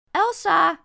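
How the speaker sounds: full, high shout of a name; shouting as loud as possible. Acted. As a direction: yell it down the street with all you've got. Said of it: "roep ik zo hard als ik kan". (zo hard mogelijk geroepen)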